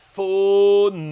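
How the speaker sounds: fonete drawn out, ending on a held t; slow syllable demo. Shown as a demonstration. Teacher building the word fonete sound by sound. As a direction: build fonete slowly, closing the throat at the t. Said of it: "eu aperto a minha garganta".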